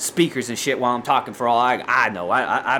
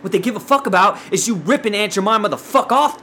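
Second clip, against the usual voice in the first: higher, emphatic indignation; heated rant; 4 semitones higher than usual. Real, not acted. Podcaster condemning withheld money owed to Aunt Jemima's family, heated. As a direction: hammer out the grievance, worked up. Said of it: "I'm gonna have to simmer down now".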